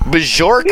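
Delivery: "Bjork" said as "buh-ZHORK"; mock "Bjork" with a zh sound, rising; mimicked mispronunciation. Mocking the wrong pronunciation.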